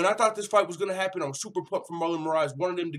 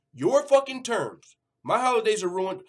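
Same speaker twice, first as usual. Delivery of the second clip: indignant; 6 semitones higher, 6 dB louder than usual. Retold or imitated. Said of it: "Jimmy Rivera said".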